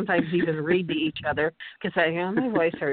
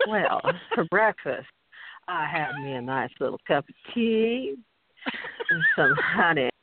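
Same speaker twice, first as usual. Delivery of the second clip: a hint of a flirty tipsy Southern belle, slowed; drunken Blanche Devereaux. Wife doing a mild Southern belle voice for the guests. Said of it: "in the Blanche Devereaux voice".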